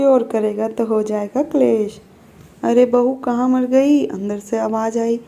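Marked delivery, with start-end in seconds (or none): 2.6-4.1 loud call across the house, pitched up; mother-in-law yelling for her daughter-in-law, a loud call. Acted.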